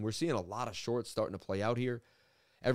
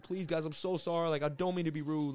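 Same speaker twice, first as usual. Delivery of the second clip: apologetic pleading; 5 semitones higher than usual. Retold or imitated. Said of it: "I wasn't being rude".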